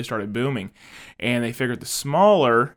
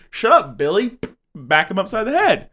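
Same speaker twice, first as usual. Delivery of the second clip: louder, higher playful yell; mock scolding; 5 semitones higher, 5 dB louder than usual. Man with a brick phone scolding Billy, mock yell. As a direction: act out a rough telling-off.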